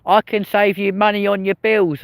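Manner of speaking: high, slow sing-song sales pitch; hammed-up doorstep salesman patter; imitating a salesman. Salesman pitching him on the street, high and slow mock patter. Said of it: "this geezer was like".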